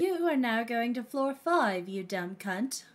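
lightly put-on British announcer; mild mock-British elevator recording. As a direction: announce it with a hint of a British accent.

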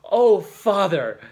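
loud, high, drawn-out joyful cry; impetuous cry. A narrator's reading. Overjoyed Judith pleads with her father, crying out impetuously. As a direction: burst out to your father, stretching it slowly. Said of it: "she cried impetuously".

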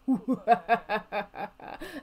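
theatrical rolling cackle; drawn-out cackle. Pretend. Narrator after the vampires stay in the manor, staged cackle. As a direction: let out a long staged laugh. Laugh closing the vampire lore.

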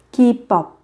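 Kipop with a doubled consonant, second syllable stressed. Shown as a demonstration. Teacher showing learners the doubled consonant, Kipop with a held middle consonant. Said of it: "chú ý gấp đôi phụ âm, nhấn âm ở cái âm tiết thứ hai".

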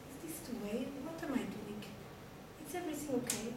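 hushed, frightened muttering; scared whisper to self. Acted. The little mouse creeping downstairs, hushed and frightened.

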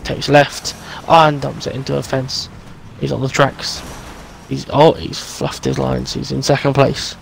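playful sports commentator voice; mock race commentary. Friend mockingly commentates his driving, playful announcer.

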